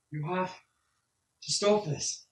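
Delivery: put-on tearful NPC pleading with the old man; urgent plea. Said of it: "he kinda yells at you".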